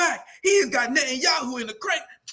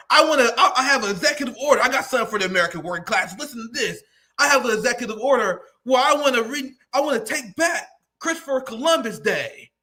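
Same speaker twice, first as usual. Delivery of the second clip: lightly voiced Trump; 3 dB louder, faster than usual. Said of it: "Donald Trump would be like".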